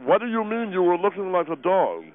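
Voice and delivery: talking through food; mumbling round a mouthful; mouth full. Acted. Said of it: "impolite to talk with your mouth full".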